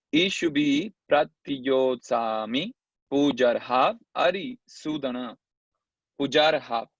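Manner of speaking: slow Sanskrit verse chanting; measured, metrical scripture recitation. Shown as a demonstration. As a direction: recite with long drawn vowels.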